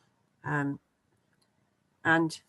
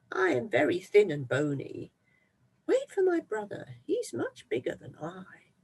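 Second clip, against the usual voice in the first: higher nervous goat plea; pleading goat; 6 semitones higher than usual. Acted. Second goat pleading with the troll, higher. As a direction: send him to your brother.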